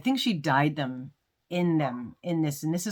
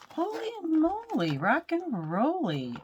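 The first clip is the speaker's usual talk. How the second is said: much higher, sing-song delight; delighted exclamation; 12 semitones higher than usual. Real, not acted. Opening a prize from a friend, sing-song delight. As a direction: squeal it with glee.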